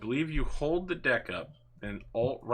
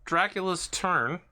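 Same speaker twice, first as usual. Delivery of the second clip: dramatic villain announcer; 6 semitones higher, 5 dB louder, much slower than usual. Acted.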